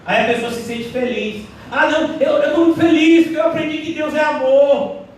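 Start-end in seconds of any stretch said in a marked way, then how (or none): 1.7-5.0 smug happy believer. Retold or imitated. Mocking a complacent believer.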